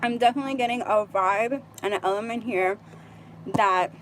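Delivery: talking while chewing gum; words round a piece of gum. Real, not acted. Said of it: "I'm sorry, I'm chewing gum".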